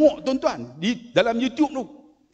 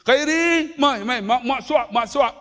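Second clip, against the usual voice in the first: coaxing mother; 6 semitones higher than usual. Retold or imitated. Mother coaxing child to eat.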